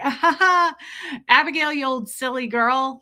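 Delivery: high, loud fake laugh; forced laugh. Streamer covering an insult with a fake laugh.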